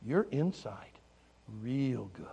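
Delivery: hushed, dropping to a whisper; tender affirmation. Retold or imitated. Pastor telling children about insides, tender whisper. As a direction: confide it softly, ending in a whisper.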